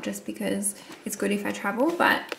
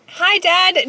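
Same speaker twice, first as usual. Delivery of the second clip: a high, bright mock greeting from a young fan, noticeably higher; imitating a sweet girl; 8 semitones higher, 14 dB louder than usual. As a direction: lightly imitate a cheerful fan saying hi. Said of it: "She was like".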